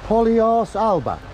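POLYARSE drawn out slowly as polly-arse, then Alba; mock Gaelic pronunciation. Shown as a demonstration. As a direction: read POLYARSE slowly, letter by letter in sound, ending in arse. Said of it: "says it in a funny language".

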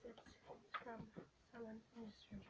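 soft unvoiced whisper. Real, not acted. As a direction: hush it, someone's nearby. Someone else in room.

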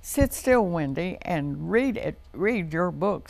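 lightly voiced scolding father; a hint of a stern dad; Daddy's voice. Daddy telling Wendy to sit still, mildly stern. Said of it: "said Daddy".

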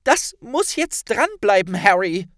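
high, loud and firm; girl firmly calming her friend; firm Hermine. A narrator's reading. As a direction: tell him it must stay on. Hermine answers Harry.

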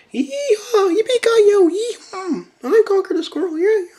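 very high, loud squeaky cartoon squirrel; squeaky Conker voice. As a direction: squeal it out like a hyper cartoon critter. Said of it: "girly voice, squeaky voice".

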